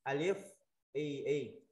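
"Alif" rising, then "I I" as ee; spelled-out syllable reading. Shown as a demonstration. Teacher answering how alif with mark Y reads, sounding out. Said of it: "mình đọc sao?".

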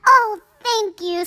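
high, loud gratitude; delighted thanks. A narrator's reading. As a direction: gush your thanks. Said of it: "said Cinderella".

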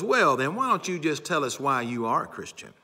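mock condescending professor putting a student on the spot. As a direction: lightly imitate a teacher out to ridicule. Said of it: "in a very condescending, uh, uh, tone, uh, trying to ridicule her".

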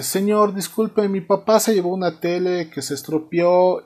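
high, lightly voiced kid; timid boy voice. Bill approaches the store manager, lightly voiced boy. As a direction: play a boy politely interrupting.

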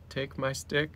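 growly tiny tyrant voice; cat villain voice. Pretend. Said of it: "She's like".

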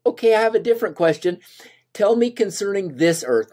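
high and fast, eager to ask again; eager Moses. Acted. Moses turns to a new question, eager, high and fast.

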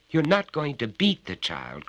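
high, worried plea; anxious protest. A narrator's reading. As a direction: protest in alarm. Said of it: "cried Missus Carter".

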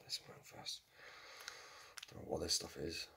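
muttered aside. Real, not acted. Muttering while adding sauce.

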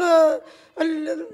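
slow, choked cry of grief. Real, not acted. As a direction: voice breaking into a sob. Grieving mother breaks down crying. (بكاء مكسور)

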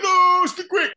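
a high, loud mocking imitation of the referee. Referee refuses the start.

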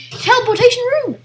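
exasperated loud yell; frustrated shout. Real, not acted. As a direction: yell it at the screen.

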